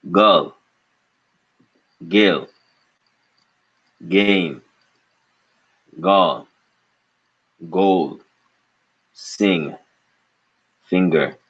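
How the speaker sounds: words spoken into a cupped hand; hand over mouth. Shown as a demonstration. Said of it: "with your hand over your mouth".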